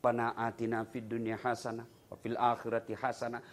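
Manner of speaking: prayer recitation. Shown as a demonstration. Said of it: "recites prayer as demonstration".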